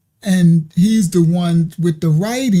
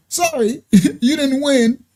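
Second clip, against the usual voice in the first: mock salesman with a laugh; 5 semitones higher, slower than usual. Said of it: "they be like".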